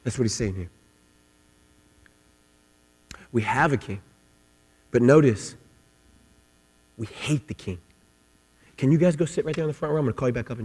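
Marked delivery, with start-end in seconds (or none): 0.0-7.8 low and very soft, almost under breath; hushed, grave. Acted. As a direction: bring it down to a hush. Preacher drops to hushed gravity.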